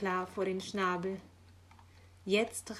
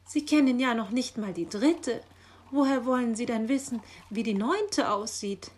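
louder, slightly raised puzzled question; baffled; 4 semitones higher, 6 dB louder than usual. A narrator's reading. Magpie questioning the know-all raven, baffled. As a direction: challenge him in bafflement. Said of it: "war Frau Elster verdutzt".

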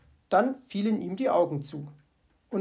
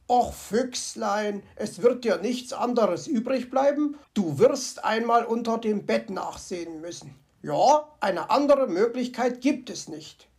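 coaxing himself, lightly voiced fox; mild resignation; fox talking to himself; 2 semitones higher, 3 dB louder than usual.

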